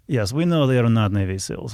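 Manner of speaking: lightly voiced Ukrainian accent; imitated Ukrainian accent. A Ukrainian answering about the fake seals, light Ukrainian accent. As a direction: imitate a Ukrainian speaking careful English. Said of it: "the one guy who spoke English".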